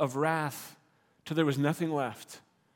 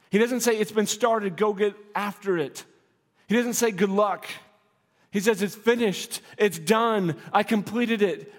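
higher and louder, driving the point home; preaching at full force; 3 semitones higher, 4 dB louder than usual. Real, not acted. Preacher to congregation on Jesus' finished work, fervent. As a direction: proclaim it with rising fervour.

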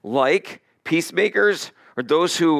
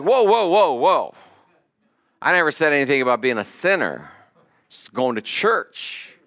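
startled backpedal. Retold or imitated. Coworker voiced in retold story.

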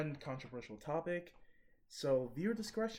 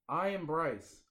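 louder retry; slower than usual. Real, not acted. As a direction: speak up, said again. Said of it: "That's way too quiet for the".

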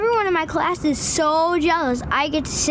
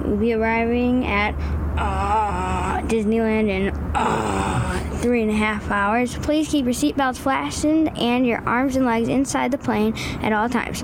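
pilot announcement voice; 4 semitones lower than usual. Shown as a demonstration. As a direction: lower kid's try at captain voice. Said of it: "repeat after me".

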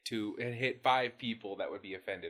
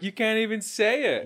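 higher, louder teasing disbelief; mock disbelief; 10 semitones higher, 6 dB louder than usual. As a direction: play up the amazement for the daughter. Teasing daughter, mock incredulous.

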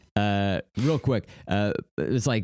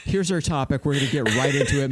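mock podcast host; 2 semitones higher than usual. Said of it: "They're just like".

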